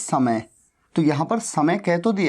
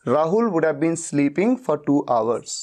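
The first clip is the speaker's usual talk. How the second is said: slow model sentence; 2 semitones lower, much slower than usual. Shown as a demonstration. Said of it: "teacher models English sentence".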